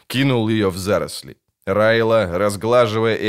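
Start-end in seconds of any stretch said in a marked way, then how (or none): none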